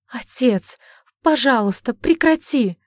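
high, loud begging cry; desperate plea. A narrator's reading. Daughter begs her father to stop, high and loud.

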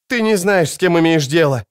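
put-on high girl pleading hard; urgent high warning. Ciri warns Cahir of Bonhart, high and urgent.

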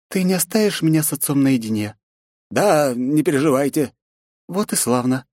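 high, polite but firm; lightly voiced heroine; young princess. A narrator's reading. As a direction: ask the old servant to leave. Nastya asks butler privacy.

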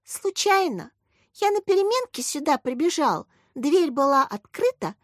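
put-on crying little boy. A narrator's reading. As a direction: plead like a small boy near tears. Petya voiced again.

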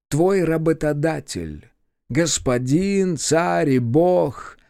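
a hint of a cold menacing boss; slow, measured villain threat. A narrator's reading. Villain declares himself master.

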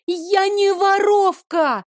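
high desperate shout. A narrator's reading. Girl shouts her innocence at the guard. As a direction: cry out Я не воровка high and slow. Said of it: "крикнула я".

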